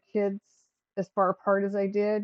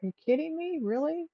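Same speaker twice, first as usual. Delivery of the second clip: incredulous; 9 semitones higher than usual. Retold or imitated. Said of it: "'cause it's like".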